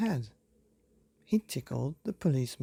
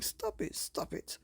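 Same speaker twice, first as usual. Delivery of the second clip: teacher begging through laughter; 7 dB quieter than usual. Acted. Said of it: "laughing out loud, saying".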